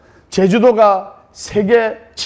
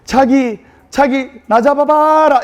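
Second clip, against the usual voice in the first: flirty Seoul bride; 6 semitones higher, slower than usual. Retold or imitated. Bride running from her husband on the beach, flirty. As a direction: tease him to chase you. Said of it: "서울 신부가".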